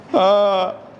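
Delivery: lightly weighted phone answer; put-on heavy voice. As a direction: answer with a slightly put-on heaviness. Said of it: "अब थोड़ा आवाज़ भारी कर लिया". (थोड़ी भारी बनाई हुई आवाज़)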